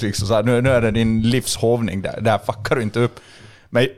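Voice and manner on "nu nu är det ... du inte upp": not nice. Retold or imitated. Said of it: "Då var jag nog inte trevlig".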